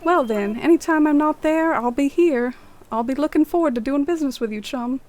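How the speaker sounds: put-on lightly done Cockney accent, quick and chatty. Voicing the shopkeeper villager in a mock Cockney accent. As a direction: play a cheeky Cockney shopkeeper. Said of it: "Cockney accent, for sure".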